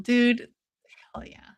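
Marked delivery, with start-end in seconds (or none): 1.1-1.5 hell yeah under the breath; a near-silent little cheer; whispered cheer. Real, not acted. Hushed cheer at the fight.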